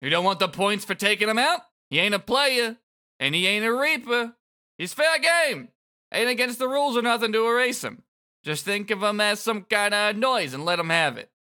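high, loud taunting thug voice; mock the kid like a cocky bully; sneering villain. Kubo keeps taunting.

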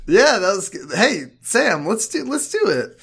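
loud, high whoops of delight; excited cheer. Real, not acted. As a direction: celebrate the good throw. Excited cheering after throw.

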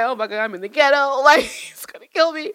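whispered mock panic; nervous whisper. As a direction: whisper a scared thought to yourself, playing it for laughs. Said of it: "I got nervous".

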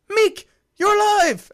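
high, loud cry of mock astonishment; delighted exclamation. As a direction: draw it out in hammed-up joy. Retelling Korg's joyful discovery.

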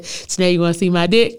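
a lightly voiced sleazy drunk guy; imitating drunk friend. Drunk friend's come-on retold.

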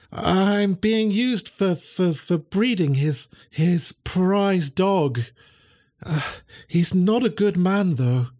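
high, slow halting voice; sad, halting confession. Acted. Greyhound revealing her owner's cruelty, slow, high and sad. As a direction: admit it slowly, ashamed.

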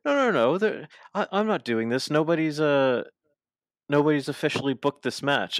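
high, loud panicked refusal; high mock Stokely whine. Retelling the wrestling skit, Stokely refusing in a high mock whine. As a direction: squeak out the protest in a mock whine.

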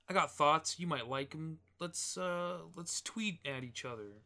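lightly voiced friendly mobster; a hint of a mobster making a friendly threat. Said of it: "doing, like, a mobster voice".

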